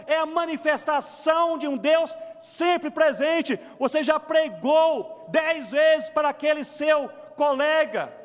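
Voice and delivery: high, driving pulpit exhortation; impassioned preaching. Real, not acted. Preacher urging believers to keep sharing the gospel, impassioned. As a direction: urge the congregation on, phrase after phrase.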